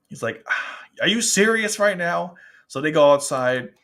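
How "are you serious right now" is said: higher-pitched mock outrage; imitated angry disbelief. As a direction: voice his exasperated disbelief, pitched up. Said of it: "he's so angry".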